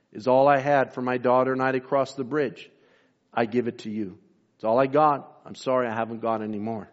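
low, lightly acted humble giving; gentle apology. Woman gives a beggar her last cents, gently.

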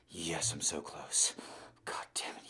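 urgent breathy whisper. Acted. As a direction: whisper it through tension. Whisper near climax.

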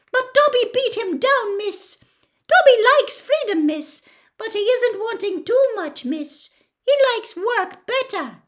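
high, loud squeaky elf voice; Dobby the eager house elf. Acted. Dobby tells Hermione about Dumbledore's offer, high squeaky elf. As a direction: pipe it up high as an excitable little elf.

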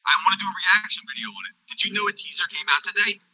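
glitchy distorted voice; alien voice. Real, not acted. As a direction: sounds like a bad call line. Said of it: "you sound like an alien again".

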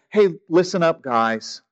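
casual call. Shown as a demonstration. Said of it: "This isn't a".

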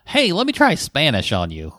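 lightly put-on suitor's pitch; Tim Kaine. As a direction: try a drawn-out would-be seducer. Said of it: "When Tim Kaine speaks Spanish".

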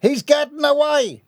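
high, loud cry of alarm; alarmed shout. A narrator's reading. Onlooker alerts the crowd to a getaway, alarmed shout. Crowd spots a fleeing villain.

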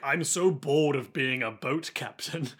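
slow, mildly bored complaint; lightly acted boredom, dragged out slowly; bored captain. Bored boat captain grumbling about his job, mildly bored. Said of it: "There's a bored boat captain".

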